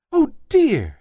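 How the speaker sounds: high, small dismayed rabbit voice; little rabbit dismayed. A narrator's reading. Toy rabbit alone, dismayed, high voice. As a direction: sigh it like a lost toy bunny. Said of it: "he thought".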